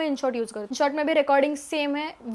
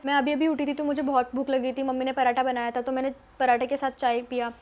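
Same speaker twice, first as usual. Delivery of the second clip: fast vlog talk. Shown as a demonstration. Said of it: "इस type में आपको थोड़ा फास्ट बोलना है".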